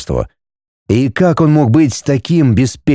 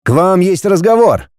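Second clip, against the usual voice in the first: dopey deep voice; 6 semitones higher than usual. A narrator's reading. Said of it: "басом произнесла маленькая фигура".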